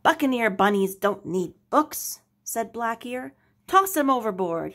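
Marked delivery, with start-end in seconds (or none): 0.0-2.2 louder gruff pirate captain; stern captain. Acted. Captain scolds his bookish son, louder. 3.7-4.7 louder pirate yell; yelled order. Acted. Captain yells to crew to toss books, louder. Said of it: "he yelled to the other bunnies".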